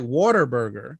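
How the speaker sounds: Whataburger as "worter-burger"; Philly pronunciation. Shown as a demonstration. Co-host explaining what it sounds like, Philly accent. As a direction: say Whataburger with Philly "wawr-ter". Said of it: "that's being from Philly".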